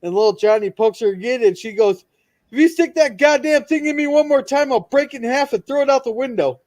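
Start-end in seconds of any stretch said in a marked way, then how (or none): 2.5-6.6 mock angry girl.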